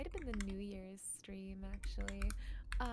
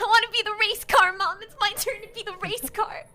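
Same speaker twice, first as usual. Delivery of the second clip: laughing pleading; 9 semitones higher, 18 dB louder than usual. Real, not acted. Pleading for the race car.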